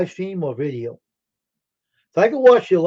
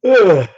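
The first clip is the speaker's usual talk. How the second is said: sudden loud, higher-pitched yawn; loud yawning groan; 5 semitones higher, 13 dB louder than usual. Real, not acted. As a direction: let a real yawn burst out. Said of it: "I'm just yawning today".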